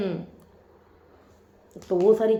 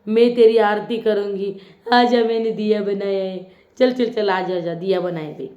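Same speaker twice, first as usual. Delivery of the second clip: quoting Tania. Retold or imitated. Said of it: "उसके बाद भी तानिया".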